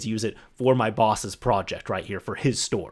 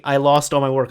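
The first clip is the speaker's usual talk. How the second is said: louder, distressed retelling; exasperated coworker; 5 dB louder than usual. Retold or imitated. Coworker explaining lost work, louder and upset. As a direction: blurt out the loss.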